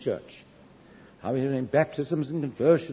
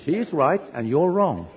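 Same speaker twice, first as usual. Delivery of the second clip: retold firm correction; firm rebuke; 3 semitones higher, slower than usual. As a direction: lay down the verdict as an acted divine reply. The Lord answers his argument.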